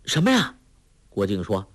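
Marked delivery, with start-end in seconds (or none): 0.1-0.5 high, startled question. A narrator's reading. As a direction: jump at his outburst. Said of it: "黄蓉吓了一跳".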